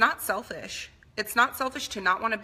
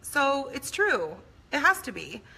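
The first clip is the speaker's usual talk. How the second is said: put-on much higher, defiant kid voice; imitating young self; 8 semitones higher than usual. Daughter voices her younger self arguing with mom, higher. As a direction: whine back like a stubborn girl. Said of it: "And I would say".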